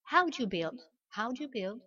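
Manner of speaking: "how do you build" as how-dju bild; contracted do you. Shown as a demonstration. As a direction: model "do you" squeezed into dju. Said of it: "Donc je répète". (« how do you build » avec contraction en dju)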